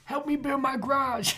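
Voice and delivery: high, thin ghoul voice, not raspy; a failed raspy ghoul voice. Acted. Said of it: "That wasn't raspy".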